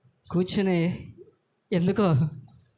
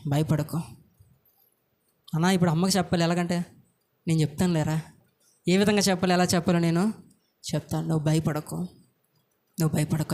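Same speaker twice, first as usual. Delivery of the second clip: reassuring with love; 3 semitones lower than usual. Retold or imitated. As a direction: soothe him like a caring elder. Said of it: "ప్రేమతో".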